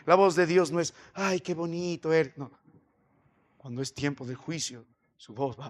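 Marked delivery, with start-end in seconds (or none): 1.1-2.4 lightly imitated cooing flattery; a touch of saccharine sweetness; mock sweet voice. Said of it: "la voz de Dios no es suave".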